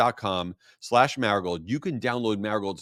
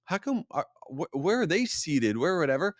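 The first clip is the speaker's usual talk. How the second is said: baffled at the wedding; 6 semitones higher than usual. Retold or imitated. Groom at his wedding wondering where guests are, high and baffled. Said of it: "And I'm like".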